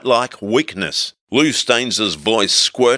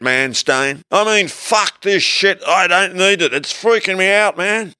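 higher, rising into panicky whine; freaked-out hippie; 5 semitones higher than usual. A narrator's reading. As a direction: spiral into a stoned freak-out. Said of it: "getting deeper into my hippie character".

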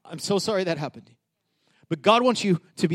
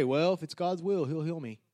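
mock prayer; 9 dB quieter than usual. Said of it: "this is what we pray".

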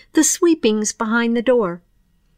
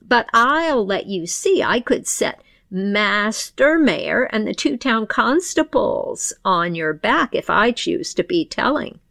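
put-on gloating old dame; 2 semitones higher than usual. Dame confronts the pixie thief.

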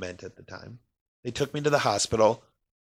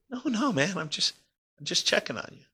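higher-pitched, easygoing retold officer; casual reassurance; 7 semitones higher than usual. Police officer to man at fishing spot, casually reassuring. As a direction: wave off the apology, just checking in.

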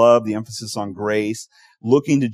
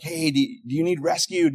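rescuer's call; 5 semitones higher than usual. Acted. Rescuers calling to castaway.

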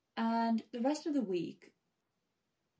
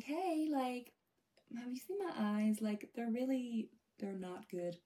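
put-on higher-pitched, slightly American-accented greeting; American-tinged, higher-pitched approach to a pharmacist; accidental American accent; 3 semitones higher than usual. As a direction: slip lightly into an American accent. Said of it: "I've got an American accent on there".

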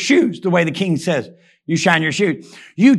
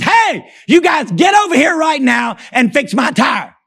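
mock commanding shout; 5 semitones higher than usual. Retired centurion orders soldiers.

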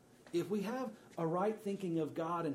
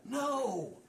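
emphatic no; 7 semitones higher than usual. Real, not acted. Rebuts the mock idea.

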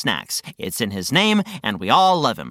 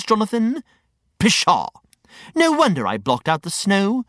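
lightly voiced pompous grumbler, put out; a touch of theatrical indignation; indignant Reg, mildly huffy; 5 semitones higher than usual. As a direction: huff about winter in a character voice. Character rants against winter.

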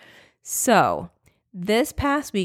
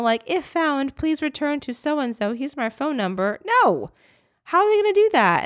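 high, rising disbelieving outburst; panicked rant; 6 semitones higher than usual. Retold or imitated. Telling TSA nobody will return a laptop, high panicked disbelief. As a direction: voice climbing in exasperated panic.

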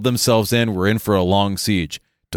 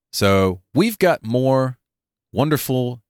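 announcer voice; 2 semitones higher than usual. Acted. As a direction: announce it like a showman. Grand announcer buildup.

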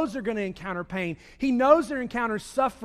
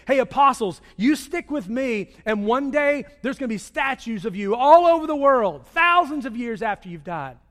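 mock grand promise; 3 semitones higher, 5 dB louder than usual. Mock promise by Jesus, louder.

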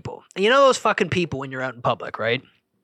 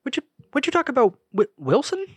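higher, punchy catchphrase voice; catchphrase impression; 9 semitones higher than usual. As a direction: toss it off like a sitcom line. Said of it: "same catchphrase".

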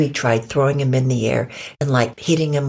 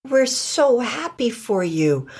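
encouraging; 7 semitones higher, slower than usual. Acted. Una encourages proud Buffy.

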